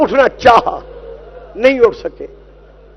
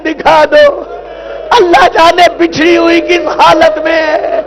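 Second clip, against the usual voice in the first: lament recitation. Acted. Reciter chanting Karbala's grief to the gathering. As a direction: chant the tragedy to the mourners.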